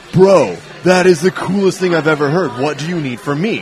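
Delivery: hyped, emphatic craft brewer voice; Sam Calagione impersonation. Retold or imitated. Brewer reacting to hearing about beer workouts, enthusiastic impersonation. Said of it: "That was a great impersonation of him".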